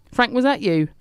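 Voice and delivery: Hope suspecting Frank, surprised. Acted.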